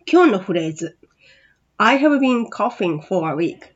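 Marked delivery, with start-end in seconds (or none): 1.8-3.6 slow model reading. Shown as a demonstration. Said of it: "発音練習に入りましょう".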